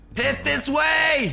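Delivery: fantasy adventurer voice, shouting.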